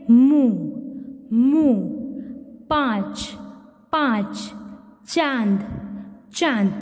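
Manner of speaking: मुंह, पाँच, चांद each twice with a nasal vowel; chandrabindu words. Shown as a demonstration. Teacher demonstrates chandrabindu words, nasal and clear. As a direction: let the vowel in चांद ring through the nose. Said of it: "चंद्र बिंदु वाला".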